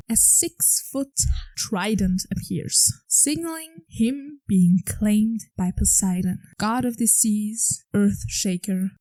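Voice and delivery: slow, weighty storyteller reading; dramatic reveal. Acted. Recapping the claiming scene in slow epic narration. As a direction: draw out each title like an epic proclamation.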